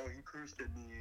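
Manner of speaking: whiny tattling customer. Pretend. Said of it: "been like".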